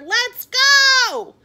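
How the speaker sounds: loud, high, urging shout; calling out. A narrator's reading. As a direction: holler to hurry him along. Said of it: "called his father".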